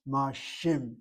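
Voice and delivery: shim said alone, the shva closing the syllable; ma shim with a clean stop after shim; pronunciation demo. Shown as a demonstration. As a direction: break the word after shim. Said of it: "That's why I'm pronouncing the word".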